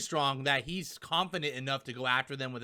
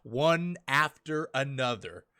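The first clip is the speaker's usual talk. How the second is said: low, slow simmering annoyance; pissed off; 4 semitones lower, slower than usual. Retold or imitated. Big Mom getting up after the Straw Hats, slow mock seething. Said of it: "she's just pissed".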